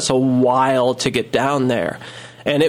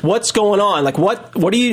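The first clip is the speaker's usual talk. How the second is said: higher-pitched, anxious questioning; mild retold panic; 6 semitones higher than usual. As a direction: act out confused, rising alarm. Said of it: "kinda panicking now".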